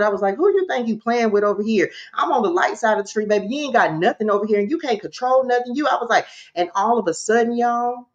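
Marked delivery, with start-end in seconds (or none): 0.4-5.7 rapid-fire retold challenge; going in. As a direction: tell off an intruder at a fast clip. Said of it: "Y'all, I'm going in".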